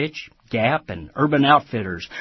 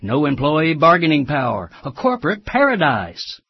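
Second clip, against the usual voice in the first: carnival barker pitch, a touch louder; snake oil seller; 4 dB louder than usual. Acted. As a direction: hawk the workplace like a huckster. Ironic sales pitch opening commentary.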